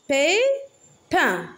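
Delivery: "Pépin" split into pé, pin; rising "pé", pause, falling "pin" in "Pépin"; syllable by syllable. Shown as a demonstration. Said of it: "On a deux syllabes". (« Pépin » découpé en deux syllabes)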